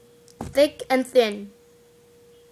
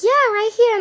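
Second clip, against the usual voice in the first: high, loud insistent voice; re-enacted bossy reply; imitated teacher; 12 semitones higher, 10 dB louder than usual. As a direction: insist shrilly as the retold teacher.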